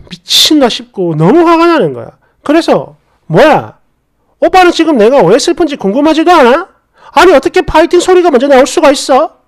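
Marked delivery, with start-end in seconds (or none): 3.3-9.4 mildly indignant, rising as it goes; confronting. Acted. Upset girlfriend challenging her boyfriend, mildly indignant. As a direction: take him to task with a touch of outrage. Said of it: "이렇게 따졌더니".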